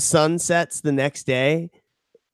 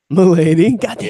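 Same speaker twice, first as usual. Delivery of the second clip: high, loud milady mock; fedora guy voice; 4 semitones higher, 6 dB louder than usual.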